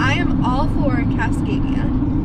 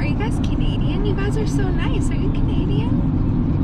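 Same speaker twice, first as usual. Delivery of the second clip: higher-pitched, mock-excited fan of the accent; imitated gushing stranger; 8 semitones higher than usual. Traveler retelling New Zealanders admiring their accent, gushing imitation. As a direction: gush in a raised voice, imitating an impressed local.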